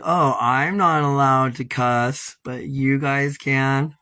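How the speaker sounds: slow, sneering imitation of a hypocrite; sarcastic mimicry. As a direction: drag out the mock complaint. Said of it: "it's like".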